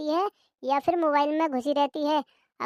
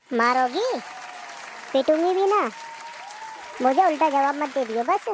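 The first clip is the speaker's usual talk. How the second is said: angry threat. Acted. Sisters-in-law quarrel.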